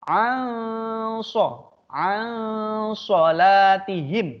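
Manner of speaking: ansolatihim drawn out very slowly, nasal hum before shad; ikhfa recitation. Shown as a demonstration. Teacher reciting an ikhfa example for the class. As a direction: stretch ansolatihim, humming the nun. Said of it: "nun mati bertemu shad".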